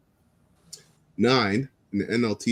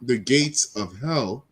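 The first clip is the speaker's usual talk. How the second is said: slow, solemn Bible reading; scripture reading; 2 semitones higher, much slower than usual. Acted. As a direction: read it like scripture. Reads scripture aloud.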